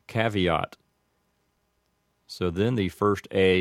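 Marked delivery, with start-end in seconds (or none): 0.1-0.8 caveat with a flat a as in cat; caveat, American a; Americanized caveat. Shown as a demonstration. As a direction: say caveat as KAV-ee-aht. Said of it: "like this".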